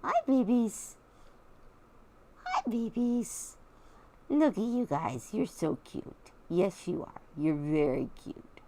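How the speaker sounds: high cooing at the pets. Real, not acted. Cooing at her raccoons through the window. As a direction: gush over them like babies.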